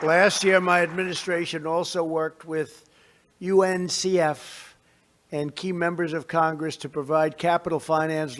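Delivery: measured, formal address to a crowd; podium speech. Real, not acted. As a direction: deliver it like prepared remarks.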